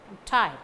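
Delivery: "tired" stressed, "I'm" kept weak. Shown as a demonstration. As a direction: lean only on "tired". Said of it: "Stress falls only on tired".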